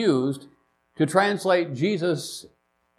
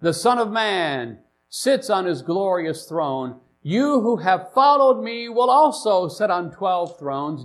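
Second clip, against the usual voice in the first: measured, emphatic Bible reading; scripture reading; 2 semitones higher than usual. Acted. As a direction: read scripture aloud, building through the list to the promise. Reads scripture aloud.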